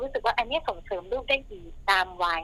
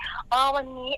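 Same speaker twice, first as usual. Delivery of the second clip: drawn-out praise; 4 semitones higher, slower than usual. Shown as a demonstration. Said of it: "การชมก็ดี".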